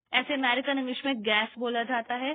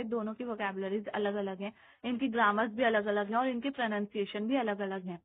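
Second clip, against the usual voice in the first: ordinary talk, nothing marked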